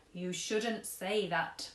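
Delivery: lightly voiced gentle old man giving advice; a hint of an old gent counselling a girl; kindly old tramp. Old tramp advises sad girl, lightly voiced kindly. Mister Stink gently scolds.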